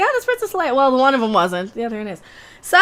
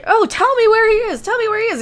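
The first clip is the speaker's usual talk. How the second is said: mock villain demand; 9 semitones higher than usual. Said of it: "she's like".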